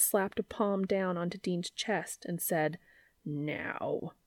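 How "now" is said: firm command. Acted. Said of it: "in a voice that brooked no argument".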